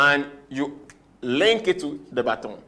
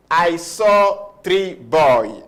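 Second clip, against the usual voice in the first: put-on slow, careful "I saw three boy"; deliberately wrong sentence, slow; 4 dB louder, much slower than usual. Shown as a demonstration. Teacher showing a wrong sentence to the class, slow and careful. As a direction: spell out "I saw three boy" slowly, each word apart. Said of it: "That's how we say it in English".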